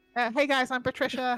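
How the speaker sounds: very high, loud, belted female voice. Voicing a woman who greets the players and asks their order: voicing Patricia, a woman. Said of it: a "female" version of the speaker.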